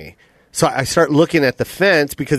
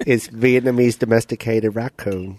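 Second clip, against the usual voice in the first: put-on slow, lower Vietnamese-accented raccoon; mock Vietnamese accent; 4 semitones lower, 3 dB quieter than usual. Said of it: "Sounds like an evil Vietnamese raccoon".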